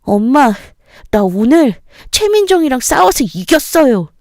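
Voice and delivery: put-on high, huffy boy's voice, proud he won; a kid storming in, bragging; voicing the young son, huffing with pride; huffing child. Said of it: "씩씩거리며 집에 들어오더군요".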